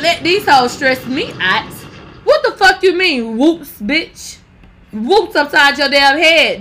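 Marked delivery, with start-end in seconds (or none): 2.2-4.4 higher, louder indignant; louder indignant repeat. Real, not acted. 4.9-6.6 slow, loud threat; slow threatening. Real, not acted.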